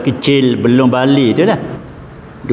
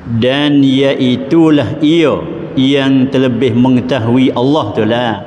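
solemn recitation. Acted. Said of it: "maka firman Allah Ta'ala".

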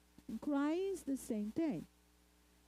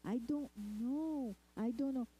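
put-on childish dodging; 3 semitones higher than usual. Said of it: "they say".

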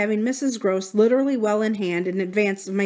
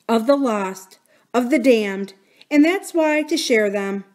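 horror-struck faltering; 3 semitones higher, 4 dB louder than usual. Acted. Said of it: "I faltered myself with the horror".

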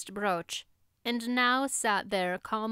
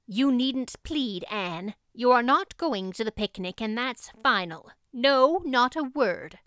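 stony refusal; 3 semitones higher, 4 dB louder than usual. Acted. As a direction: shut her down like a wall.

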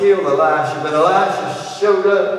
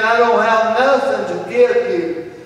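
high, louder helpless refusal; frustrated king; 7 semitones higher, 4 dB louder than usual. Acted. Preacher playing the king refusing the mother, higher. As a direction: tell her plainly there's nothing left.

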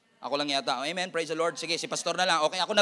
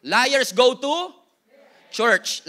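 much louder, very slow, word by word; loud, drawn out; 8 dB louder, much slower than usual. Real, not acted. Pastor delivering a punchline to the church, loud and very slow. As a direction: stretch it out, hammering each word.

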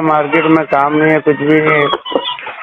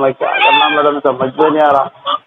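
whining plea; 3 semitones lower than usual. Pretend. Caller whines about his troubles.

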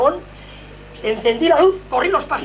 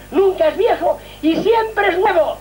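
slow, higher voice choked with tears; tearful; 6 semitones higher, slower than usual. Real, not acted. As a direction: overcome with emotion. Moved by the eternal embrace.

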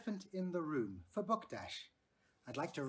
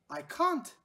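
put-on childlike voice; 11 semitones higher, 7 dB louder than usual. A narrator's reading. Child answering her dad.

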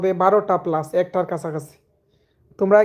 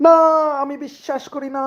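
hushed dramatic disbelief; 6 semitones higher than usual. Acted. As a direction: let the denial collapse into a stunned hush. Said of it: "সেই reaction". (উঁচু কিন্তু খুব নরম গলায় ভেঙে পড়া অবিশ্বাস)

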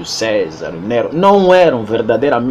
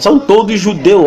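emphatic; 9 semitones higher, 6 dB louder than usual. Real, not acted. Heated accusation, voice jumps.

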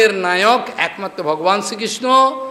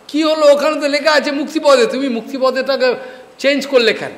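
higher-pitched puzzled questioning; retold challenge; 5 semitones higher than usual. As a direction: question it as if catching someone out, pitched up. Acted questioning of changed verse. (অভিনীত বিস্মিত প্রশ্ন, উঁচু সুরে)

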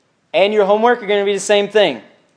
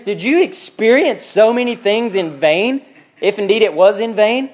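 slow, emphatic rebuking question; a little upset. Acted. Paul questioning the Galatians, a little upset. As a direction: press the question with mild indignation. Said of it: "He's a little upset?".

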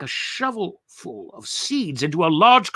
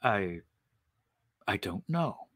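much softer, hesitant hushed reply; whispered back; 6 semitones lower, 10 dB quieter, slower than usual. Acted. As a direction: answer back in a timid hush. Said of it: "he whispered back".

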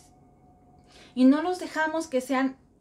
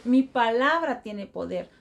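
reciting a mantra. Shown as a demonstration. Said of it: "todos los días empiézate a decir".

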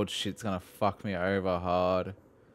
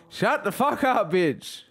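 much higher jokey telling-off; mock high snap; 10 semitones higher, slower than usual. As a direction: snap at the voice in the game. Mock yelling at NPC.

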